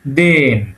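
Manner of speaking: "দেন" slow, with a softened consonant; soft consonant demo. Shown as a demonstration. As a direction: model the soft-sign sound in "দেন". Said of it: "একটু নরম হয়ে যাচ্ছে".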